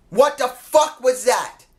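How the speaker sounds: slow, stunned disbelief; incredulous. Real, not acted. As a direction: spell out each word in disbelief. Disbelief at a short match.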